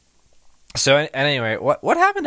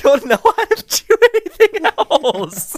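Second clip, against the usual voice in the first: put-on girl voice; 11 semitones higher, 5 dB louder than usual. Still in girl voice.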